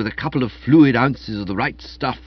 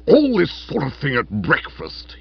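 in dudgeon; 4 semitones higher, 3 dB louder than usual. Acted. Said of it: "dudgeon in his manner".

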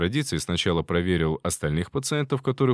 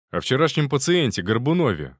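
blurted out; 4 semitones higher, 4 dB louder than usual. Acted. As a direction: blurt it out, a bit louder. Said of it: "выпалил Соколов".

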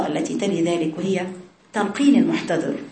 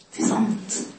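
whisper; 6 dB quieter, much slower than usual. Acted.

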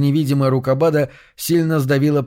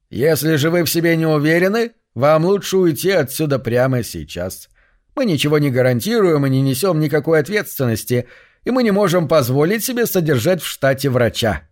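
muffled dead man voice; 3 semitones higher than usual. Acted. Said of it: "Голос звучал приглушённо".

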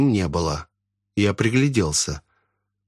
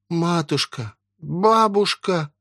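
higher, slow anguished call; desperate cry; 7 semitones higher, slower than usual. Acted. Family crying out to the possessed old woman. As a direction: cry out in despair.

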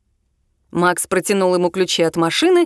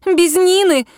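high indignant outburst, louder; a girl refusing to leave her friend behind, crying out in protest; 10 semitones higher, 4 dB louder, slower than usual. A narrator's reading. She won't abandon her friend, an indignant cry. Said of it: "возмутилась девчонка-подружка".

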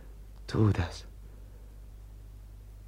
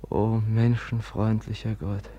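prayer. Acted. Brother prays for the dead woman by candlelight. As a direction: pray over the dead, reverently. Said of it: "ich will beten".

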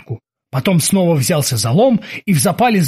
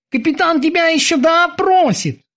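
high threatening sailor; 12 semitones higher than usual. Acted. Kiki threatening prisoner.

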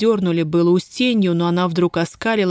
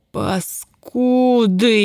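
yelled; 5 semitones higher, much slower than usual. A narrator's reading. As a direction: hurl the insult out. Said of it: "заорал Ефим". (крик)

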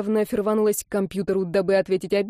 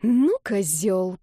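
hissed; much slower than usual. Acted. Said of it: "прошипела я".

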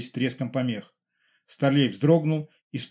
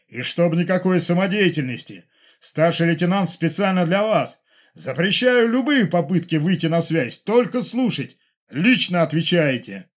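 high, loud angry commands; furious orders; 5 semitones higher, 6 dB louder than usual. Acted. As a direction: lay down the law, furious. General furiously forbidding contact. (разъярённый генерал запрещает выходить на связь)

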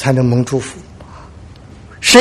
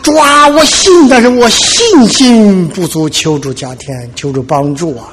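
tearful cry fading to plea; slower than usual. Acted. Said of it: "马上又流泪又呼，呼喊说".

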